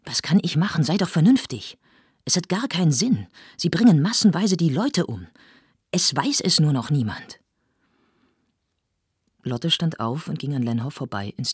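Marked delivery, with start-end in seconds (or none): 0.1-7.4 higher, louder anxious plea; desperate pleading. Acted. Lenhoff begs Lotte to be reasonable, desperate and louder. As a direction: beg her to see sense.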